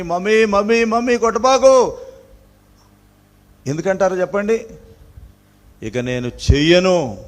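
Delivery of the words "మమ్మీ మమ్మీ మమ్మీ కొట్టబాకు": mock pleading child. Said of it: "చేతులు పట్టుకొని, కాళ్ళు పట్టుకొని".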